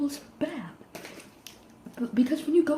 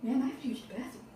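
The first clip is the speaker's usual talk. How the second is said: soft, hesitant thinking aloud; hushed, halting mock pondering; quiet musing; 11 dB quieter than usual. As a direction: wonder aloud to yourself, with long pauses. Skit, stranded and musing alone.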